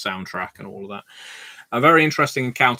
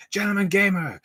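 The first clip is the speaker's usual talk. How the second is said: much higher sing-song French call; French-accented barfly calling out; 11 semitones higher than usual. Retold or imitated. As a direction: hail him in a French accent, pitched high. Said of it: "as you can tell from the accent".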